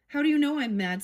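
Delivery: Alice bristles at being called mad; indignant Alice. Acted.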